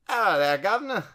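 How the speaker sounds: loud, high hammed-up impression; Kane. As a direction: call it out in a put-on high voice. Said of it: "What's my Kane impression?".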